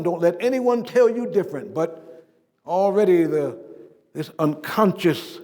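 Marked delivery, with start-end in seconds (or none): 0.0-1.7 emphatic mother. Retold or imitated. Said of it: "my mother was emphatic".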